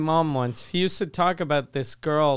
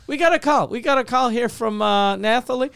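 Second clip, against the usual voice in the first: radio host; 5 semitones higher, 3 dB louder than usual. Retold or imitated. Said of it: "then he goes".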